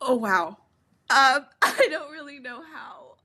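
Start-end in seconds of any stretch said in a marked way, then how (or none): 1.1-3.2 louder, words wobbling through tears of laughter; laughed to tears, trying to start talking; crying with laughter. Real, not acted. Kid recovering after dad's rant, crying with laughter. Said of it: "I'm literally crying".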